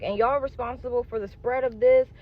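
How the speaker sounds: hammed-up angry tirade, trailing into blah blah; fussing out. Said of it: "I was fussing this woman out".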